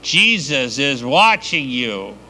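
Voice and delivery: slow, drawn-out eerie warning; a hidden voice calling out, slow and eerie; mysterious voice. Acted. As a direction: spook the robber from the dark, slowly. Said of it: "The voice kinda says".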